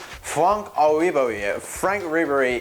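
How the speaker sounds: drawn-out French name; slow put-on French pronunciation; mock French accent.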